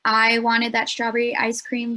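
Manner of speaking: I stressed up front. Shown as a demonstration. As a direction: lean on the word "I". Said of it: "For example, we have here".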